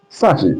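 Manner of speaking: "sachet" said with a rising, lifted pitch; the British "sachet", voice going up. Shown as a demonstration. Teacher showing the British rise on "sachet". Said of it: "up, rising up".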